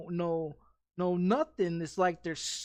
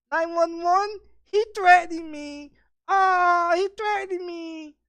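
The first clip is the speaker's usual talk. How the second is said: high, loud, panicky mock caller; mock a grown man squealing to the police; shrill mock of a frightened caller; whiny 911 caller; 10 semitones higher, 8 dB louder than usual. Mocking scared 911 caller.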